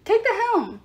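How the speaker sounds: loud, high urgent yell. A narrator's reading. Satyr coach yelling orders at Leo, loud and urgent. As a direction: bark the order across the deck. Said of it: "Hedge held".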